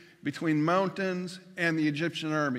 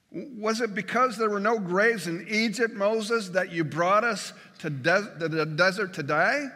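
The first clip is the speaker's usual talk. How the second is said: a sarcastic, angry jab, pitched higher; angry sarcasm; 3 semitones higher, 3 dB louder than usual. Retold or imitated. Israelites mocking Moses, sarcastic and angry. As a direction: throw the question back at Moses with bitter sarcasm. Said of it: "you can hear their sarcasm in their angry response".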